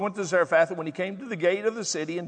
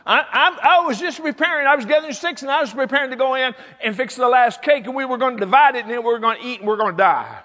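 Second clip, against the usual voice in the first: loud, high explanation, falling at the end; hammed-up tale of woe; acted protest; 6 semitones higher, 7 dB louder, faster than usual. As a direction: plead the widow's hopeless case. Acts out the widow's protest.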